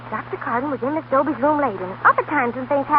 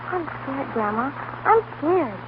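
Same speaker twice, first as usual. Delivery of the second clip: much softer, frightened confession; scared whimper; 5 dB quieter, much slower than usual. Acted. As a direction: shrink into fear. Girl confesses fear to grandmother.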